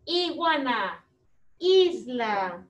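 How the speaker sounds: slow word list, each one stretched and separate; words for repeating. Shown as a demonstration. Teacher modelling words for pupils to repeat, slow and drawn-out. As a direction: draw each word out for children to copy. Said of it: "quiero que repitan las palabras".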